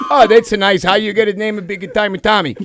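lightly accented dad voice; imitated dad. Shown as a demonstration. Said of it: "I'll mimic a fucking conversation between them two".

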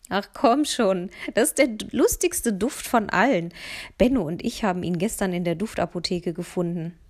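laughing friend egging her on; teasing boy. Acted. Mats teasing his friend about the funny scent, lightly voiced boy.

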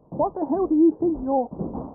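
high, scolding landlady voice; brisk nosy landlady. Acted. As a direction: scold her like a fed-up landlady. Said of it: "The landlady's voice".

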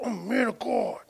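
put-on high childlike answer; little boy reply. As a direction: answer like an eager toddler. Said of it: "He said".

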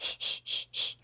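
tiny, hushed creepy giggle; creepy little laugh. Shown as a demonstration. Podcaster showing how small their own laugh is, creepy little laugh. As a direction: give a small, whispery snicker. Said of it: "my laugh is just a little".

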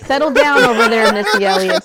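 loud playful telling-off; teasing scolding. Retold or imitated. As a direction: call out a joker across the table. Teasingly calls out co-host's rhyming phrase.

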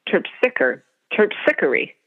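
Terpsichore as terp-SICK-er-ee; shifted emphasis. Retold or imitated. Sister-in-law quoting the dictionary, terp-SICK-er-ee. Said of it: "with the emphasis".

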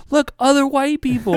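high, loud, gleeful call; imitated cop holler. Cop showing off his back-seat passengers, excited holler.

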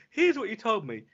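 flat assistant voice, dropping sad at the end; robotic assistant voice. Retold or imitated. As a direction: read it like a smart speaker. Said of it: "And the Alexa's gone".

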